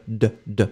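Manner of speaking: "D, d" repeated as the sounded final consonant; isolated D sound. Shown as a demonstration. Teacher drilling the feminine ending, "D, d" sounded out. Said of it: "C'est vraiment un D".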